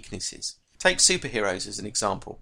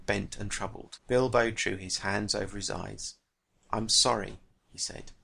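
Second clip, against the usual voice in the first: reading a novel scene with lightly voiced characters; teacher reading a Tolkien extract to the class; story reading. A narrator's reading. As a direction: bring the dialogue to life as you read.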